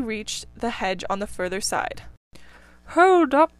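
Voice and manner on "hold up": put-on loud, high call of an old rabbit; elderly rabbit. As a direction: halt him with a sharp call. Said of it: "said an elderly rabbit".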